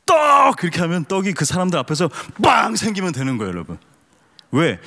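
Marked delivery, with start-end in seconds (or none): 0.1-0.6 high, loud shouted command; Jesus's command. Pretend. Pastor playing Jesus making bread appear by word alone, loud command. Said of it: "예수님의 입장에서". 2.4-2.8 mock bang. Acting out bread popping up.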